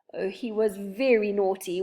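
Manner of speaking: breathy tearful whisper, half-wept; weeping whisper. Acted. Silky confesses to the children, weeping whisper. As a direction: whisper it through tears. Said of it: "wept Silky".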